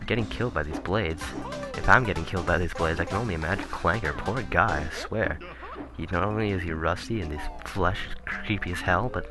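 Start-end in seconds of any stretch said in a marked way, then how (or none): none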